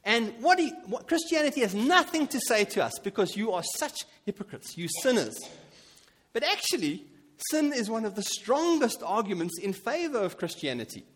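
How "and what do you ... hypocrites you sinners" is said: a hint of a jeering unbeliever; mocking skeptic. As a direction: lightly mimic a scornful skeptic. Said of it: "They say".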